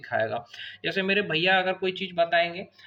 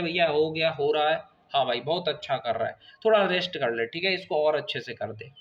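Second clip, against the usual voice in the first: imitated easygoing brotherly praise; relaxed, slightly lowered coaching voice; friendly encouragement; 4 semitones lower than usual. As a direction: reassure like a friend, lightly acted. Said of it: "दोस्त की तरह बात करेगा".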